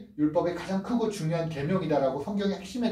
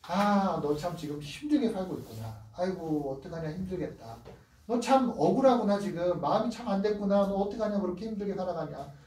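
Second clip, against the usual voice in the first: tender pity. Acted. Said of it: "예수님이 모든 사람을 볼 때 어떤 마음".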